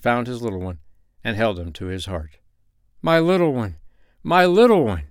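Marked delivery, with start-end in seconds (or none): 3.0-5.0 high, rising in force on the repeat; joyful cry. A narrator's reading. Peasant holds his found little one, high joyful cry. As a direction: cry out tenderly to a found child. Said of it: "he cried".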